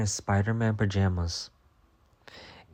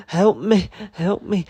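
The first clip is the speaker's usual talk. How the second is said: high, loud cries; screaming for help; 10 semitones higher, 7 dB louder, slower than usual. Retold or imitated. Fleeing the hawk, screaming high and loud for help. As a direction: cry out for help while running.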